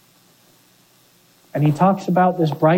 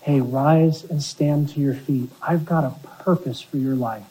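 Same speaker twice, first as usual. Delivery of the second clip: gentle reassurance; 4 semitones lower, 5 dB quieter than usual. Retold or imitated. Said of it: "he gives him instruction".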